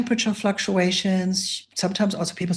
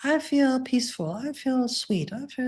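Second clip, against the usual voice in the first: name each feeling gently, as a demo; calling out feelings; 6 semitones higher than usual. Shown as a demonstration. Teacher showing students how to call out feelings, peaceful and slow. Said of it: "just call out how you're feeling".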